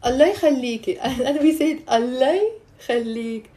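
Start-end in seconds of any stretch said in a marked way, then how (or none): 0.0-1.0 mild demonstrated plea; pleading intonation. Shown as a demonstration. Teacher repeating the intonation for students, mild pleading. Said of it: "you see how I did". 1.9-3.5 mild plea, broken into separate words; pleading intonation. Shown as a demonstration. Teacher showing how we say it, mild pleading. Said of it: "the difference in the intonation".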